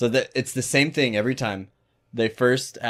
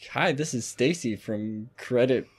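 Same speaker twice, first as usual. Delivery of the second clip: telemarketer voice. Retold or imitated. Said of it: "what does she say?".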